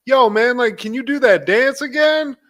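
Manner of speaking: high, loud barked request from a bouncer; hyped-up doorman. Retold or imitated. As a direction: call out like the guy at the door. Guy at door calling to him.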